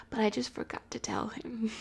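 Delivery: guilty hushed aside; sheepish whisper. Real, not acted. Admitting to viewers she forgot, in a whisper. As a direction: whisper the confession. Confessing a small secret.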